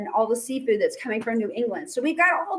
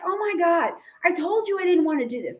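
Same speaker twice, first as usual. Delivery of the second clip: higher-pitched mock exasperation; lightly acted weary complaint, pitched up; exasperated; 5 semitones higher than usual. Washington to his feuding department heads, exasperated.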